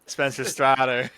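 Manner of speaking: put-on slow, jokey Australian accent; mock Australian accent. Giving the trivia answer as a running joke, mock Australian accent. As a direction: draw out the name in put-on Australian. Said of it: "I do say his name like that".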